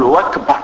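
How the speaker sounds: وكبر with a w sound replacing the glottal stop of أكبر; wrong pronunciation. Retold or imitated. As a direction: swallow the hamza so أكبر becomes وكبر. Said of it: "الهمزة من كلمة أكبر".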